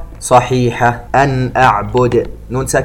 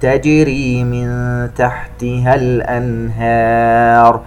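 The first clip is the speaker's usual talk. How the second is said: slow chanted tajweed recitation; Quran recitation; much slower than usual. Acted. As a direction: draw out each vowel, chant it. (تلاوة مرتلة بطيئة)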